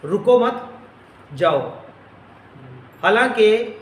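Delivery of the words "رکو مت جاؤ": رکو مت run together, break, then جاؤ; pause after مت. Shown as a demonstration. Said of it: "ایسے لفظ تھا".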